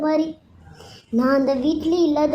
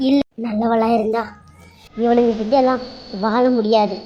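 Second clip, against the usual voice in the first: cold resolve; 4 semitones lower than usual. Acted. Tears turn to vengeful resolve.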